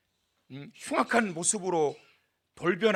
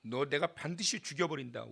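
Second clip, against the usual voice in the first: low vow; 4 semitones lower, 9 dB quieter than usual. Acted. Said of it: "칼을 갑니다".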